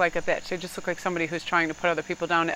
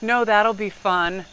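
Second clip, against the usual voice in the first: passive aggressive; 2 semitones higher, 4 dB louder, slower than usual. Retold or imitated. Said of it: "passive aggressive and I'm like".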